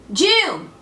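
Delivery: short cry of doom; prophetic cry. Acted. Cassandra warning her city, short prophetic cry. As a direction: call out DOOM in one burst. Prophecy cried out, first take.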